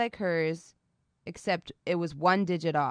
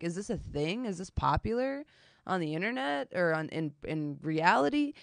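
mock bewildered aside; 7 dB quieter than usual. Her own inner reaction, quieter.

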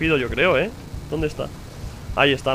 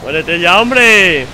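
1 angry yell; 6 dB louder, much slower than usual. Real, not acted. Yelling at enemy in game.

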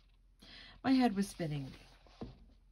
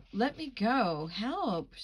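frightened cry, pitched up and louder; shrieking; 4 semitones higher, 5 dB louder, much slower than usual. Acted. Lily shrieking at the old woman to let go. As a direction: yell for help as she's grabbed. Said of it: "Lily shrieked".

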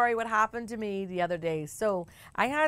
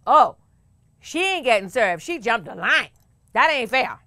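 retold shout-out; 6 dB louder than usual. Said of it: "shouts out".

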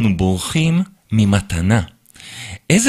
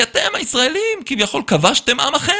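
much higher mock accusation; angry boss voice; 14 semitones higher than usual. Boss accusing the Israeli of occupation, much higher mock voice. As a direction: play the boss lecturing with contempt. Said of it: "הוא אומר לי".

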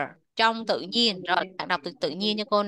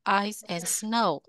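slow model reading; 3 dB quieter, slower than usual. Shown as a demonstration. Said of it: "Nào, đọc to lên".

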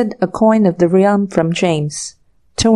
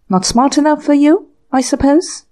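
ferocious sarcasm; 7 semitones higher than usual. A narrator's reading. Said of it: "demanded James ferociously".

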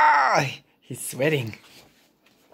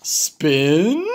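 Gerald voice; 3 semitones lower than usual. Acted. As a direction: lower big elephant voice. Gerald echoes.

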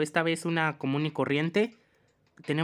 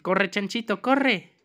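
excited urging, jumping higher on the last word; urgent cheering on; 4 semitones higher, slower than usual. Pretend. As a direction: spur the little runner on. Second try urging the piglet.

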